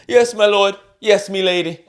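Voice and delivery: high, loud, put-on old-time servant voice; bow and scrape like a servant in a castle; mock medieval servant. Husband playing a servant to his wife, hammed-up old-time voice.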